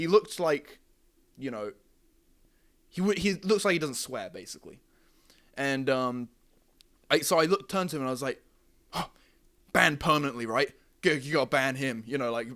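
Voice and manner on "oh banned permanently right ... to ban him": mock, dry, over-earnest sarcastic tone. Retelling what was said to him, sarcastically: retelling own sarcastic remark. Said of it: "being kinda sarcastic about it".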